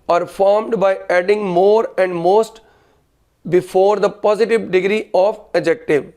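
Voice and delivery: slow, word-by-word dictation; dictating. Real, not acted. Teacher dictates grammar rule to students, slow dictation. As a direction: read it out slowly for note-takers.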